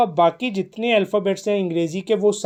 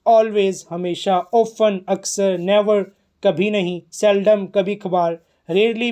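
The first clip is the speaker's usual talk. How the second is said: slow vocabulary reading; slower than usual. Shown as a demonstration. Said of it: "teacher reads out vocabulary".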